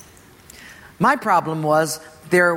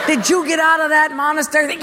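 astonished; 8 semitones higher, faster than usual. Retold or imitated. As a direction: leap up in disbelief, then rush the question. Pastor's astonished reaction.

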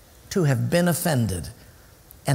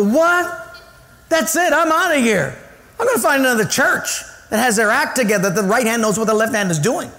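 high, loud offended outburst; mock indignation; 9 semitones higher, 3 dB louder than usual. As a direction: act out a churchgoer storming off in a huff. Acted offended churchgoer storming out.

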